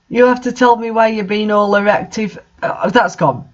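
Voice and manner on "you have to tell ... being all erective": mocking reread. Real, not acted. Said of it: "that's got to be almost deliberate".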